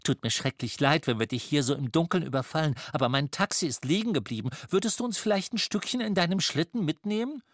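quick, chatty plea for a favour; a hint of a fussy lady, rattling on; lightly voiced apologetic lady. Miss Mistletoe asks for a lift. (leicht gespielte Dame, hastig entschuldigend)

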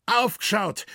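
high, sudden warning call; urgent high-pitched cry. A narrator's reading. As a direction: call the alert across the forest. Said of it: "rief der Schränk".

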